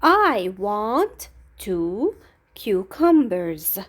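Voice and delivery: slow, deliberate model answer. Shown as a demonstration. Teacher slowly modelling the full answer for pupils. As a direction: spell it out slowly for the class. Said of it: "so how can we answer this question?".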